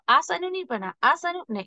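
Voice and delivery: आसनु said without the breathy ह; wrong reading. Shown as a demonstration. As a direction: drop the ह from आसनु. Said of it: "it's a wrong". (गलत तरीका, आसनु बिना ह के)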